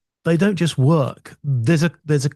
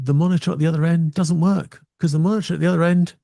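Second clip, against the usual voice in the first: ordinary delivery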